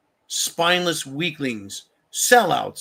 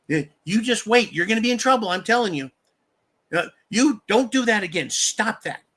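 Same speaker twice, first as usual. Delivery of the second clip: higher-pitched, mock scolding mom; a hint of a mother making empty threats; imitating ineffectual mother; 6 semitones higher than usual. Mother warning her tantrum-throwing kid in the store, mock scolding. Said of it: "She keeps going".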